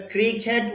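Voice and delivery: ক্রিকেট with a clear "ket" ending; ক্রিকেট with e in its second syllable; Bengali pronunciation. Shown as a demonstration. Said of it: "উচ্চারণটা হলো বাংলা উচ্চারণ".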